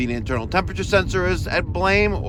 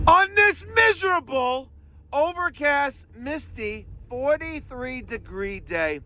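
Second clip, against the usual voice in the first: much higher, slower sing-song complaint; mock whine; 10 semitones higher, slower than usual. Redoing his weather intro in a high mock whine.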